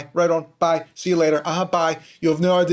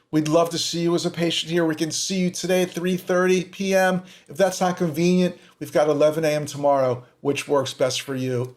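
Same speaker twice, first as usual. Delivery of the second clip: friendly receptionist demo. Shown as a demonstration. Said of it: "It's not that hard".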